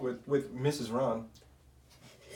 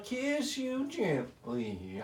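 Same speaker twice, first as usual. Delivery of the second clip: slow and seductive, crooning; 5 dB quieter, much slower than usual. Pretend. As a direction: drawl it out like a lover. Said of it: "So if I say, like".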